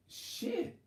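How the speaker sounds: breathy whisper under the breath; 혼잣말로 속삭이는 욕; whispered curse. Retold or imitated. Muttered inner curse.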